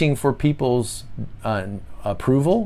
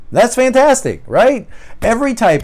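excited; 10 semitones higher, 5 dB louder than usual. Real, not acted. Teacher enthused about healthy twos.

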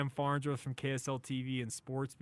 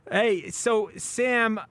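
radio host open; 4 semitones higher, 13 dB louder than usual. Acted. Host opens segment after break.

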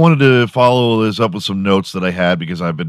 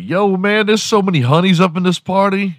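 much higher, excited dude voice; mock party guy; 11 semitones higher than usual. Imagined guy at a party to his friend, high excited voice. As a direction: hype up the room like a party bro. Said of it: "Be like".

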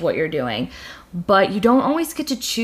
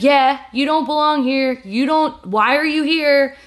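jeering gamer; 5 semitones higher than usual. Retold or imitated. Harasser quoted, raised voice.

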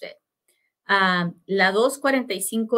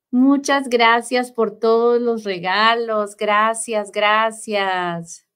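bright, louder thank-you; excited donation thanks; 2 semitones higher, 5 dB louder, slower than usual. Real, not acted. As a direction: gush thanks for the gifts. Thanking viewers for live gifts.

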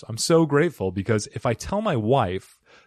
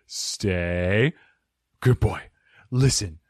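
dog command; 5 semitones lower, much slower than usual. Pretend. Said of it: "giving you commands like a dog".

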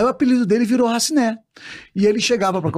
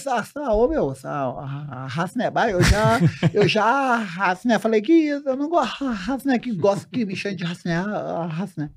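halting, blocking grumble, often softer; Raciné; 4 dB quieter than usual. Acted. Stutterer grumbling to mates about his nickname, stammering. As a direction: stammer out the complaint, stuck on the filler. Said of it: "ele travava e acabava criando uma palavra".

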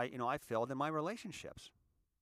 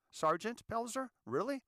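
mocking sergeant; 11 semitones higher, 4 dB louder than usual.

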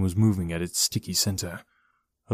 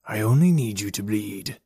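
calm. Acted. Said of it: "Jim answered calmly".

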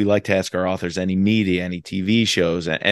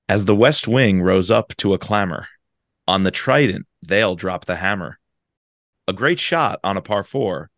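bouncy limerick lilt. Shown as a demonstration. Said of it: "a No Limits Limerick".

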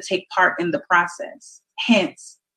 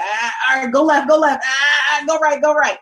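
high, loud directions; guiding voice; 7 semitones higher, 4 dB louder than usual. Retold or imitated. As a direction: call out the turns like a guide.

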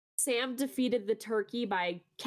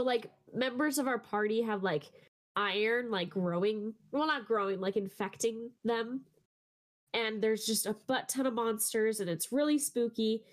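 congested, nasal voice. Real, not acted. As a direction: talk as if getting sick with a blocked nose. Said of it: "sorry if I sound nasally".

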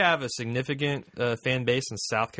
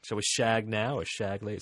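half-hearted British accent in his usual pitch; failed British accent; 3 dB quieter than usual. Shown as a demonstration. Host failing to prove he can do British, weak British accent. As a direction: attempt British, slipping into American. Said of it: "See, I can't even do it".

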